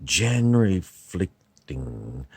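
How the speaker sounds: put-on a shaky stab at Burroughs' American accent; William S. Burroughs. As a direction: abortive American-accent impersonation. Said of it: "I'm trying to do William S. Burroughs".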